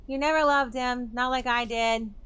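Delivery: wounded jealous retort; bitter retort. Acted. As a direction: throw it back at her. Veronica bitter reply.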